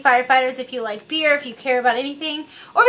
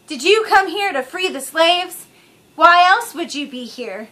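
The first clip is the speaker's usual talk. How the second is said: slow, louder, lightly mocking delivery; mock movie line; 4 semitones higher, 4 dB louder, slower than usual. Lightly mocking a bad movie scene, slow and overdone. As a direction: drag the line out in mock earnest. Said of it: "making fun of young Anakin".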